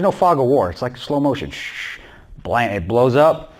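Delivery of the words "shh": soft, drawn-out "shh"; hushed sizzle of a lit fuse; imitated fizzing hiss. Speaker mimics the bomb's fuse for the audience, imitated hiss. Imitating the fizz before the blast.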